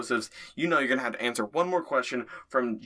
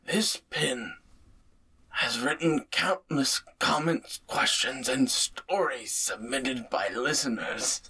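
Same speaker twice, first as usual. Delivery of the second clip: put-on injured old stepson. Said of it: "And he says".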